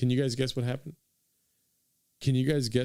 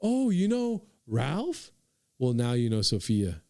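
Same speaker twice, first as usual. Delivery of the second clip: her tone; slower than usual. Retold or imitated. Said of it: "This is how she said it".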